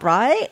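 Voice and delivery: "right?" lifted into a rising question tune; uptalk. Real, not acted. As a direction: end "right?" on an upward, questioning rise. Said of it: "everything I say sounds like a question".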